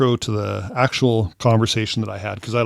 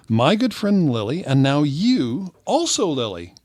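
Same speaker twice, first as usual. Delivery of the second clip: higher, singsong feigned delight; mock gushing; 5 semitones higher than usual. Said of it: "this is me now".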